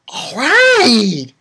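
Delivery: high, loud drawn-out cheer; excited cheer. Retold or imitated. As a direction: cheer the fighter on loudly. Excited retelling of fight scene.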